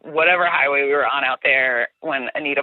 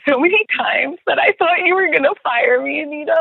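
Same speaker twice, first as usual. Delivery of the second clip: high-pitched excitement; 10 semitones higher, faster than usual. Real, not acted. Emotional recollection of scary times.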